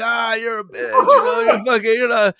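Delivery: mock him like rowdy buddies; mimicking friends yelling taunts; jeering friends. Friends mocking, laughing.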